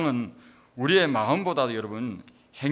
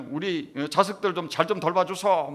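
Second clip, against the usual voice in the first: put-on loud, higher-pitched Gyeongsang-accented plea; Gyeongsang dialect; 4 semitones higher, 5 dB louder than usual. Relative pleading with the dead at ancestral rites, loud Gyeongsang dialect. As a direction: imitate a relative praying in Gyeongsang dialect, loudly. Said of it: "경상도 사투리로 그래 하는 거예요".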